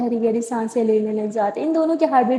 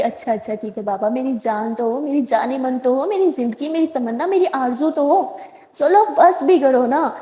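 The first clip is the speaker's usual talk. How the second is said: tender sweet-talk. Acted. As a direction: melt her anger with sweet words. Jess softly sweet-talking.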